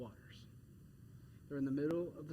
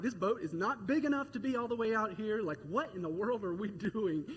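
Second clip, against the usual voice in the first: mock panic; 4 semitones higher than usual. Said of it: "I'm freaking out on side".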